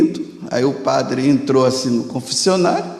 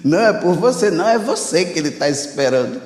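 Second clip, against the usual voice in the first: mocking joke; 4 semitones higher, faster than usual. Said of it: "Mas tudo com gozação".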